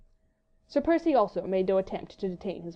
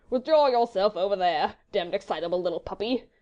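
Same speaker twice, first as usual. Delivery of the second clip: ordinary delivery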